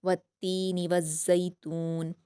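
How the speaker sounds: slow, careful Quranic reading; slow recited verse; tajweed recitation. Shown as a demonstration. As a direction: draw the verse out slowly. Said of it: "नून पर हरकत जल्द पढ़ेंगे".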